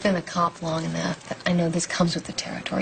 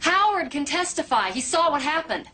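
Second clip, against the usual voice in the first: higher-pitched, urgent argument; heated insistence; 7 semitones higher than usual. Acted. Officer arguing with boss over a case, heated. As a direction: press the point hard, pitch raised.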